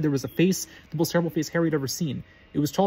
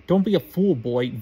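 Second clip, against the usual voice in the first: put-on louder, biting snarl at the boy; 4 dB louder, slower than usual. Voldemort snarling at Harry, louder and biting. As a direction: snap the warning at him. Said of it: "snarled Voldemort".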